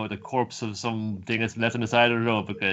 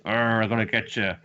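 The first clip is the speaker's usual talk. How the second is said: playful monster threat; hammed-up monster coming to get you; mock monster growl. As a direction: growl it like a cartoon beast. God menacing fleeing Oaken.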